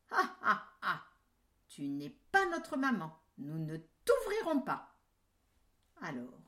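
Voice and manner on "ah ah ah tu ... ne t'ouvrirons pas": put-on high, louder triumphant kids; kids shouting. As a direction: shout them down gleefully.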